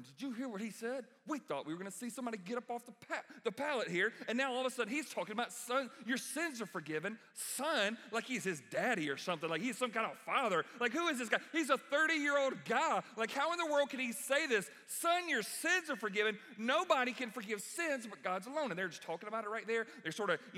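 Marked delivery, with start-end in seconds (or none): 0.0-7.2 higher, hurried scandalized whispering-in-the-corner tone; mock the scribes muttering to each other; a hint of outraged gossip, fast. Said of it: "sitting in the corner going". 7.3-16.4 higher and louder mock indignation; hammed-up scandalized scoff; outraged scribes. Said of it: "sitting in the corner going".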